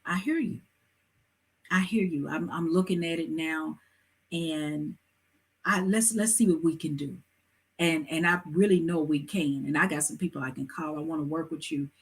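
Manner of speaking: soft, measured reassurance; calming voice. Shown as a demonstration. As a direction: soothe an upset customer, keeping it low-key. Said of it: "approach them with a calming voice".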